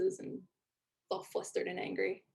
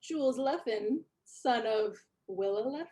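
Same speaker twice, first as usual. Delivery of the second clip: incredulous; 2 semitones higher than usual. Acted. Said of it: "looks at you in disbelief and says".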